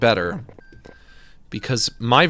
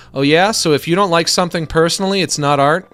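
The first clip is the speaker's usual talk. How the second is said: indignant challenge; 4 semitones higher, 6 dB louder than usual. Acted. Arguing with imagined Luigi.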